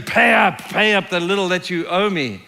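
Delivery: mock-angry debt collector, first words hit hard; angry demand. Man throttling his debtor to pay up, angry demand.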